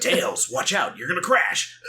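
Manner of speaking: lightly mimicked action-hero voice; David Hayter impression. Imagining another actor voicing Sonic's warning, mock dramatic. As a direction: play the warning as a miscast voice actor, half laughing. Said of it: "David Hayter".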